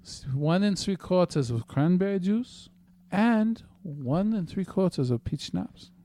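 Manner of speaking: very slow mock German accent; deliberate, drawn-out German-accented reading. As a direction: drag out the recipe in a fake German accent. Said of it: "Could you read this any more slowly?".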